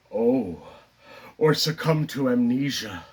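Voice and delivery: low, subdued musing; understated dramatic aside; theatrical Moon monologue. Acted. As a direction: sink into a halting afterthought. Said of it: "the character Moon".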